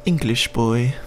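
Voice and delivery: high-pitched mock English accent; terrible English accent. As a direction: put on a bad little English boy accent. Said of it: "another terrible accent by the speaker"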